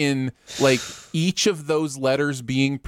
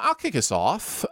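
ordinary talk

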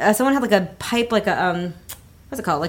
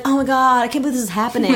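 slightly raised, retold amazement; understated quote of the guy's disbelief; mild disbelief; 3 semitones higher, faster than usual. Quoting guy, contrasted with her reply.

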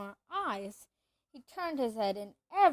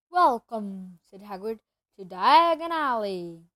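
grand welcome; 3 semitones lower, 7 dB louder than usual. Acted.

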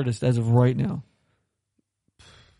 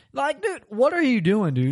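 alarmed yell; 8 semitones higher than usual. Retold or imitated. Retold panic at reckless driver.

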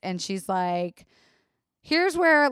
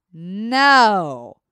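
flat refusal; 8 dB louder than usual. Retold or imitated. Refusing catheter without pain meds.

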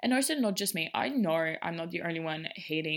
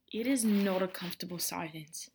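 hushed whispered aside. Real, not acted. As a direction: drop to a whisper mid-rant. Aside about eating in silence.

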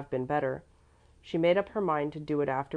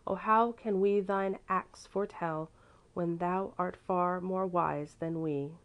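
recited hymn verse; 3 semitones higher, slower than usual. Acted. Child recites her favourite hymn verse.

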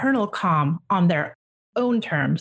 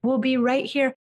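higher, gentle, soothing parent voice; reassuring a child; 6 semitones higher than usual. Shown as a demonstration. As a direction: comfort him like a loving parent after a meltdown. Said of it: "And you just say to him".

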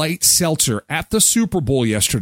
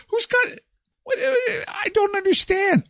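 far higher, near-shouted disbelief; incredulous shout. Real, not acted. Host hearing scalpers got huge sums, incredulous shout. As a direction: cry out in baffled astonishment.

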